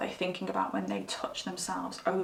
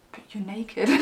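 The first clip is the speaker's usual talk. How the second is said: breaking into giggles mid-line; can't keep a straight face, giggles spill out; giggling through the line. Acted. Acting out the crush's reply but giggling. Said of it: "'Cause I just giggle".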